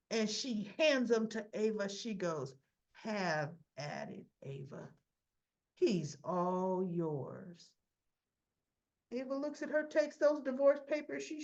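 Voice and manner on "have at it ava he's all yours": resigned Nina. Retold or imitated. Nina resigned, handing papers.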